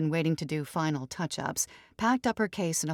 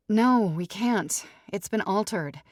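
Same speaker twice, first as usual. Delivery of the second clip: slow, higher-pitched protest; bride, exasperated; 4 semitones higher, 4 dB louder, slower than usual. Acted. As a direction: drag out the objection. Ruby answers mother.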